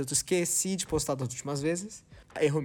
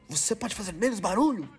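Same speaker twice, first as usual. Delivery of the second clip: mock humiliating yell; 5 semitones higher than usual. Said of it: "Era gritando assim, tipo, humilhando".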